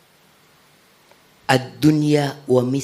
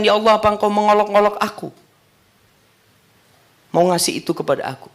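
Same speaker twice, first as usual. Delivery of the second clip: high, fast disbelieving question; disbelief; 8 semitones higher, faster than usual. Acted. The man asking God, fast and high in disbelief. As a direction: rush the words in wonder. Man's astonished question retold.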